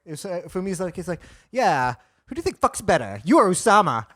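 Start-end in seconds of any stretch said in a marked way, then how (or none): 1.5-4.1 lightly imitating a friend, softer voice; understated mimicry of a friend's question; impression of friend. Comic retelling a friend's words to his face, lightly imitating him. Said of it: "That's a really good impression of me".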